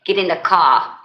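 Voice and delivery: amateur imitation of a Boston accent; loosely imitated Boston accent. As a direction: do a TV-cop Boston accent, dropping the R. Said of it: "They be talking like they".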